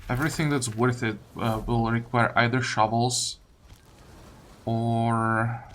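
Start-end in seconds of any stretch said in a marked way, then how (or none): none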